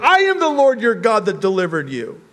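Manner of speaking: high, loud insistence from "I" onward; emphatic divine declaration. Acted. The Lord setting Israel straight, loud insistent declaration. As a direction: insist forcefully as God. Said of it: "why the Lord would say".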